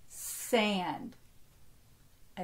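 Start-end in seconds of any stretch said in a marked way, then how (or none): 0.1-1.2 slightly slower. Shown as a demonstration. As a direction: say "Sand" slowly as one syllable. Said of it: "say it a little slower".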